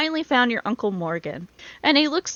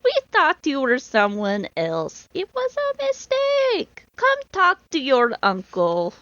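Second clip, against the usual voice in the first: put-on playful European accent; 6 semitones higher, slower than usual. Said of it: "I'll do that voice for that guy".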